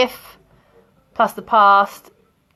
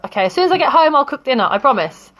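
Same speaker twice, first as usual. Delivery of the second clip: higher at the start, settling by the end; making a promise; 4 semitones higher, faster than usual. Shown as a demonstration. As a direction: offer it as an earnest promise. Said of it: "it's like, "I promise".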